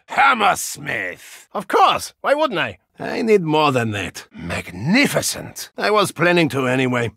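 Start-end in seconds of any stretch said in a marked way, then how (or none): 0.1-1.5 drawn-out shout. Acted. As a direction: stretch the name out in a shout. Calling a teammate.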